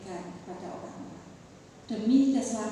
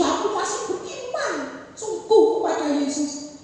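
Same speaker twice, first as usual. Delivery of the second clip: lightly gasped profession of faith; a hint of a sick man short of breath; imitating gasping; 6 semitones higher, 7 dB louder than usual. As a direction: push the words out between breaths. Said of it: "ngomongnya sambil tersengal-sengal".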